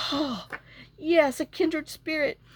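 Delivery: high, drawn-out gushing; imitating a cashier thrilled to find an ally; retold delight. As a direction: swoop up high and stretch it out.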